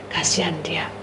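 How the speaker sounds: soft whisper of pity. Real, not acted. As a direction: breathe it as a prayer. Praying quietly for the bird.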